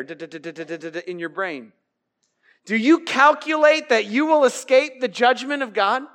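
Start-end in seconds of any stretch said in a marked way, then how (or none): 0.0-1.7 soft quick mock calculating ticks; calculator noise. Shown as a demonstration. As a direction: tick it off like a calculator. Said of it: "like a calculator".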